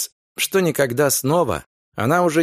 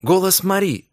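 excited exclaim; 6 semitones higher than usual. Acted. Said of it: "взволнованно воскликнула она".

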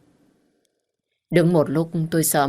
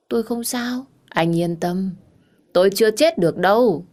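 higher-pitched, dismissive insistence; tipsy protest; 4 semitones higher than usual. Acted. Drunk woman insisting to the man she's fine, protesting.

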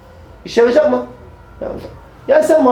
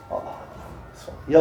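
barely voiced, slow and full of wonder; awed whisper; 13 dB quieter, much slower than usual. Real, not acted. Preacher marvels at Ebu Bekir's tears, whispering slowly. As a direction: breathe it out in a slow, hushed whisper.

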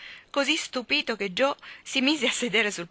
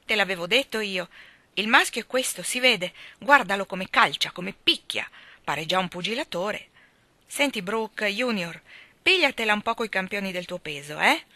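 amused exclaim; 2 semitones higher, 4 dB louder than usual. Acted. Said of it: "esclamò Lori".

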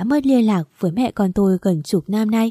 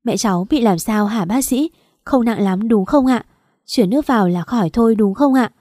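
weeping plea; 2 semitones higher than usual. Acted. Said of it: "mếu máo khóc như mưa".

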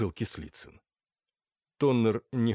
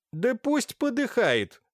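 злое пренебрежение; 12 semitones higher, slower than usual. Acted. Раздражённая барыня отмахивается.

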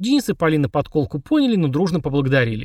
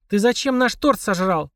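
hissing; 6 semitones higher, slower than usual. Acted. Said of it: "зашипела Полина".

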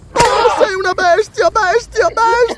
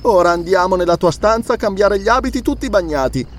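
moaning; 8 semitones higher than usual. A narrator's reading. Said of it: "gemette Belesa".

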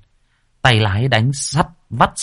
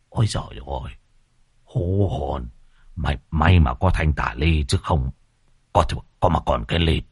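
shaken relief; 5 semitones lower, 5 dB quieter than usual. A narrator's reading. Shaken teacher after near crash.

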